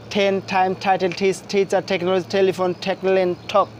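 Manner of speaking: word list from "টেন" to "ঠক", each T puffed as ঠ; aspirated T drill. Shown as a demonstration. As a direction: recite "টেন টাইম টাইটেল" onward evenly, opening each word on aspirated ঠ. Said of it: "টি উচ্চারণ দেখতে পাচ্ছি".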